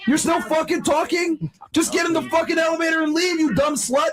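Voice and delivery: angry shouting. Real, not acted. Host yelling at guest.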